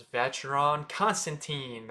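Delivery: put-on Vacheron Constantin as vatch-er-on con-stan-teen; American CH and teen in Vacheron Constantin; mispronunciation. Shown as a demonstration. Teacher shows the common wrong way, mispronunciation. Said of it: "That's not how you say it".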